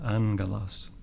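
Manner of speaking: "angelos" with an N before hard G; N-sound gamma. Shown as a demonstration. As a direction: say "angelos" as AN-ge-los, first gamma as N. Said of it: "So it takes an N sound".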